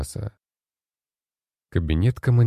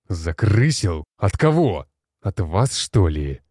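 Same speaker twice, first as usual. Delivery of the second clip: growled retort; slower than usual. Acted. Commander growls back at the generals, outraged. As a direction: throw the question back with a snarl. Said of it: "прорычал Александр".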